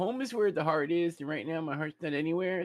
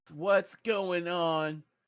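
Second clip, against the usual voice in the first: held-back, mild yelled call. Calling out in character to the drones, shouting at the top of lungs. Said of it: "I shout at the top of my lungs".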